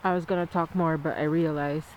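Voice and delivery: numb mouth. Real, not acted. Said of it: "I just had my root canal".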